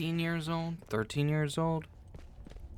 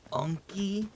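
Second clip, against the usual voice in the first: "Unky?" asked much higher, rising in disbelief; mock high question; 8 semitones higher than usual. Mocking the nickname.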